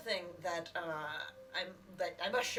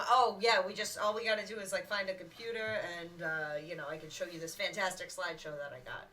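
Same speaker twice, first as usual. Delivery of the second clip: eager salesman pitch. Acted. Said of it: "I'm saying to him".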